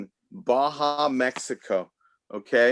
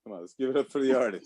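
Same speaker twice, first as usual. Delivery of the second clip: faster repeat; faster than usual. Shown as a demonstration.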